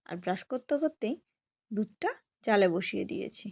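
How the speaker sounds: talking with a toothbrush in mouth; words muffled by brushing; while brushing teeth. Real, not acted. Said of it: "আর brush করছি আমি এখন".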